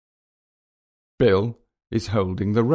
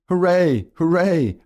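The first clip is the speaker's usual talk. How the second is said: loud, high double cheer; repeated cheer; 9 semitones higher, 5 dB louder than usual. A narrator's reading. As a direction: cheer twice, voice leaping up. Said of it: "I repeat".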